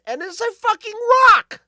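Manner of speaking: high, loud indignant yell; outraged shout. Real, not acted. Telling listeners about the rock in his beans, loud outraged yell. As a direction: shout it out in disbelief.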